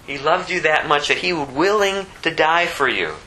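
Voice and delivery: usual speaking voice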